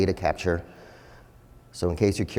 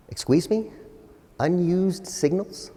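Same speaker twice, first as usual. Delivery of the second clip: incredulous, pitched way up; mock disbelief; 9 semitones higher, slower than usual. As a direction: act shocked at the idea. Mock disbelief at competitor term.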